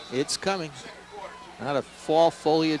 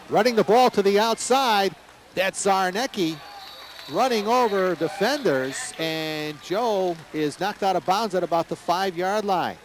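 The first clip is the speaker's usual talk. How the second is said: excited play-by-play; 3 semitones higher than usual. Real, not acted. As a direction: pitch jumps up as the run breaks open. Big run, live call.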